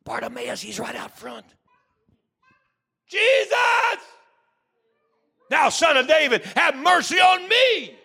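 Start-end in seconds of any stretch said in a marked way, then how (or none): 3.1-8.0 desperate high shout for mercy; a blind beggar shouting over the crowd; hollering. Acted. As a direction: cry out loud and long to be heard. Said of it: "Don't be hollering like that".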